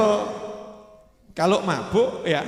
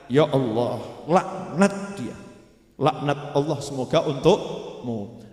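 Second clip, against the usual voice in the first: low, slow, heavy curse; cursing companion; 7 semitones lower, 4 dB quieter, slower than usual. Retold or imitated. A companion damning Nuaiman to God, low and slow curse.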